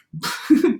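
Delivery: brief chuckle at a slip; short laugh. Real, not acted. Reader stumbles over a line, short amused laugh. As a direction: laugh briefly mid-reading.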